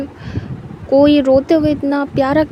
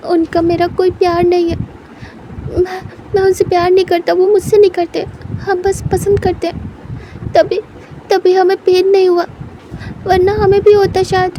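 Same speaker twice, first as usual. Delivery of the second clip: upset protest; 4 semitones higher than usual. Acted. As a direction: insist through the tears.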